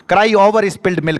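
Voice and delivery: slow, drawn out; slow recitation. Shown as a demonstration. Teacher drilling an idiom for students to repeat, slow. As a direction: say it like a phrase to memorise. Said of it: "इन्हें पांच सात बार बोल जाओ".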